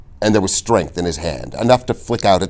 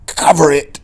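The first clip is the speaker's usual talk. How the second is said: urgent answer; 9 semitones higher, 4 dB louder than usual. A narrator's reading. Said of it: "Inigo said".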